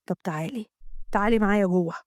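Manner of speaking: low inviting man. Acted. Amgad invites her inside.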